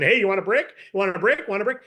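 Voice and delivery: quick blunt repeated offer with a rising tune; bad pitch. Shown as a demonstration. Pitchman badly offering strangers a brick, blunt and careless. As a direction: toss the question out carelessly, no context. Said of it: "So your approach does matter".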